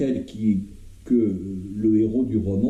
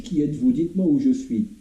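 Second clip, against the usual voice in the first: raised, agitated questioning; alarmed demands; 5 semitones higher, faster than usual. Acted. Wounded soldier questioning strangers around him, alarmed. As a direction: demand answers from unseen captors, pitch up.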